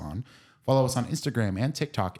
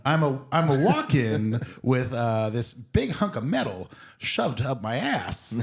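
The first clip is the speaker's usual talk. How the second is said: Christopher Walken impression; 3 semitones higher, slower than usual. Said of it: "Christopher Walken".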